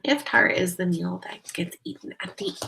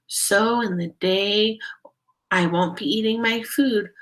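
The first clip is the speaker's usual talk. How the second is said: put-on child's poem recital. A narrator's reading.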